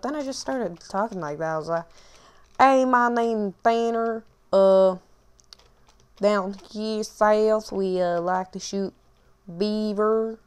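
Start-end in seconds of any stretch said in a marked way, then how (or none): 2.6-10.4 put-on drawling Southern country accent, slowed. Gamer goofing in a country accent for his viewers. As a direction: play a goofy Southern hick with a country accent. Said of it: "I just got a country accent".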